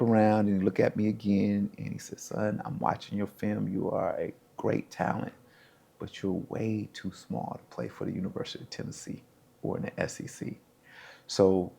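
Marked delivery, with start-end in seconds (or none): 2.2-10.6 recruiter's letdown. Retold or imitated. Recruiter letting him down, retold.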